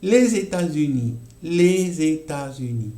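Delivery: "Les États-Unis" with lez liaison; French liaison. Shown as a demonstration. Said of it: "el último que tenemos". ("Les États-Unis" con enlace z)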